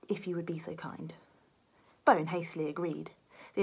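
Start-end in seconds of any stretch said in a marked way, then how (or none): 0.1-1.1 soft, hushed, overly courteous; meekly polite, a touch quiet; timid polite request. Acted. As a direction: ask very politely, almost whispering. Beef pleading politely.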